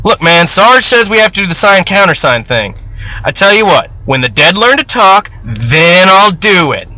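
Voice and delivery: mock the rule, playful; 1 joking sentry. Sentry joking with Sanders about the countersign, teasing.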